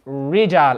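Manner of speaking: "Rijal" with the lips curled, English R; wrong English R. Shown as a demonstration. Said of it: "I've read it like the English letter R".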